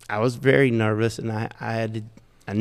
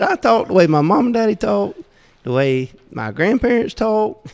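laughing proud retelling; 8 semitones higher, 4 dB louder than usual. Retold or imitated. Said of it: "I said".

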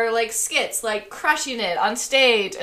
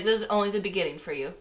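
tender farewell; 3 semitones lower, 6 dB quieter, faster than usual. Acted. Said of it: "she's like".

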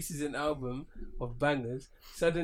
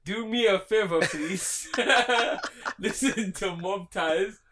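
put-on Nigerian accent, raised and pleading; 4 semitones higher, 5 dB louder than usual. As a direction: beg for a favor in a Nigerian accent. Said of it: "Nigerian voice".

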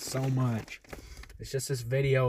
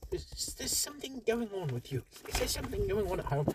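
mock concern; 5 semitones higher, 7 dB quieter, much faster than usual.

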